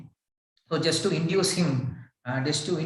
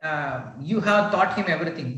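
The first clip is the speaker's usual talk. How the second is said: sarcastic. Acted. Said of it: "He sarcastically says".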